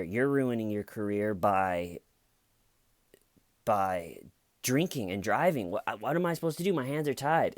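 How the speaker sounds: exasperated cop. Retold or imitated. Cop reasons with drunk lieutenant.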